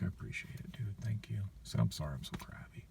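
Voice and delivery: very soft, near-whispered thanks; subdued apology. Retold or imitated. Crabby customer thanking a patient banker, subdued and apologetic. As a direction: drop right down, sheepish and grateful.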